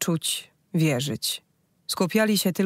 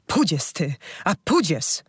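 raised banishing chant with a strange voice; driving out the demon. Acted. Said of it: "wyganiała porońca".

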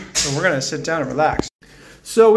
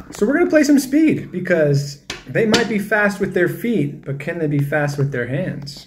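announcer voice. Pretend. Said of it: "this is my announcer voice".

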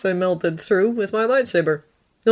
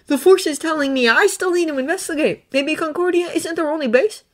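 put-on higher, earnest young Jedi voice; Thonne's voice; 10 semitones higher than usual. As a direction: lift the voice up for Thonne, sincere and pleading. Thonne insists.

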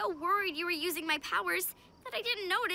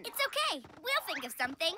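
soft reassurance; 2 semitones lower, 6 dB quieter, faster than usual. Acted. Comforts upset leader.

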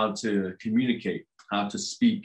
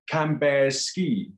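slow question; 5 semitones higher, slower than usual. Acted. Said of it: "I think he says".

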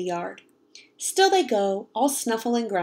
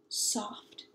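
hushed; 12 dB quieter than usual. A narrator's reading. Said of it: "end, hushed".

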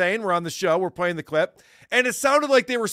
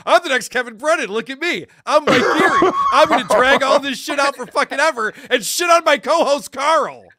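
mock smug Mike; 4 semitones higher than usual. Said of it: "he's sitting there going".

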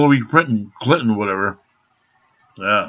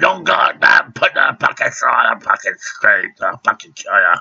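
heated quote. Retold or imitated. Retelling the heated words from the standoff with the officer, a mock yell. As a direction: throw the words back at him in a mock yell. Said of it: "'Cause I said".

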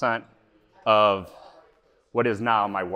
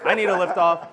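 mocking; 8 semitones higher, 8 dB louder than usual. Mocking gym buddy's request.

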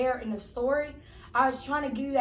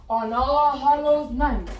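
spooky storytelling; 3 dB louder, slower than usual. Acted.

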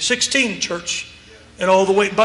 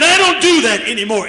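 emphatic. Retold or imitated. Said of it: "He was very emphatic with his hands".

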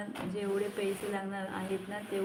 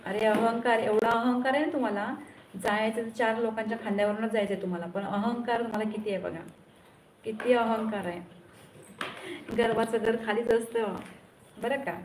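raised, heated rebuke of arrogance; angry scolding. Real, not acted. (रागावून फटकारणे)

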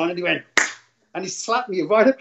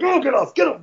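higher-pitched, urgent shooing; retold mad warning; 7 semitones higher than usual. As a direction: act out shooing people off, pitched up. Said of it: "we would get so mad".

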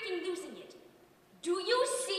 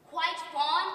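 incredulous echo; 6 dB louder than usual. Acted. Outraged at neighbour's phrase.

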